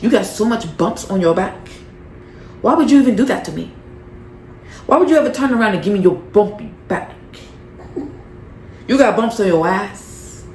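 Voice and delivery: hammed-up outraged boss rant; Jocelyn monologue. Recapper performs Jocelyn ranting at Neek, mock outrage. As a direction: play the offended boss tearing into her. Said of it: "my little Jocelyn monologue".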